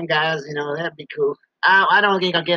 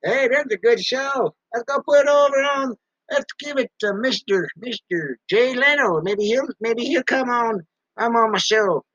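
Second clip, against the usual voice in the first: mock Google voice; 5 semitones higher than usual. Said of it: "Google picking 'em up and saying".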